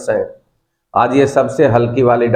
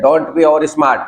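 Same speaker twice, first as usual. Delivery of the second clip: slow scolding; much slower than usual. Real, not acted. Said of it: "teacher scolding class".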